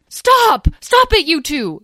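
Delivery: high loud shout to break up the fight; yelling stop. A narrator's reading. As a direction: bark at them to stop. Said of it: "yelled Asriel".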